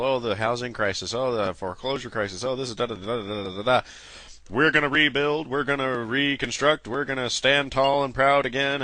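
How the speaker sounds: sneering imitation of campaign promises; mock politician. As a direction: parody a pompous speech. Mocking people and politicians' slogans.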